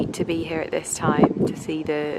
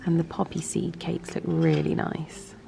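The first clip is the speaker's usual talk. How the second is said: whispering; 7 dB quieter than usual. Real, not acted. Hushed tea in dining room.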